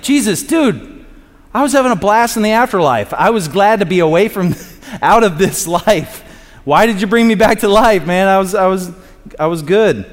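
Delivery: high, worked-up protest as the revived man; mock complaint. Revived man griping at Jesus for bringing him back, mock-indignant.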